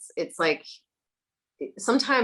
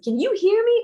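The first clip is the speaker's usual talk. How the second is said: much higher and louder, a pleading ghost calling out; 6 dB louder than usual. Retold or imitated. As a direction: play the trapped ghost calling out to be heard. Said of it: "He's like".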